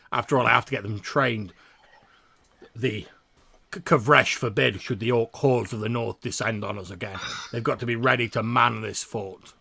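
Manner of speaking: put-on loud, stiff old soldier; proud dwarf sergeant, keeping his temper; dwarf drill instructor.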